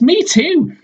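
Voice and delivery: a tiny chirped reply; Albert. Acted. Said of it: "says Albert".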